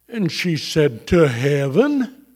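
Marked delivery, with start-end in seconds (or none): 1.1-2.2 slowly, with a questioning lift at the end; as if obvious. Retold or imitated. Wife answering husband's question, as if it were obvious. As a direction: imitate her mild "you should have known". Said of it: "as though I should have known".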